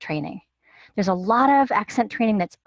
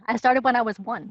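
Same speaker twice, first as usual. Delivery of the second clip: joking through a chuckle; laughing; 3 semitones higher than usual. Real, not acted. Guest joking to the host about starting young, chuckling. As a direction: laugh while you say it.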